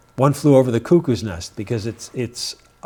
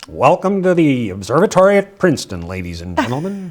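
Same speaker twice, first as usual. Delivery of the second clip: put-on old-time radio announcer; 1930s announcer voice; 3 semitones higher, 5 dB louder than usual. Shown as a demonstration. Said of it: "nineteen thirties announcer voice".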